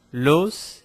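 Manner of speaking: "los" with the final s sounded; S final prononcé. Shown as a demonstration. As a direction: end "los" on a hissed s. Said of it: "pronúncia do singular dessas".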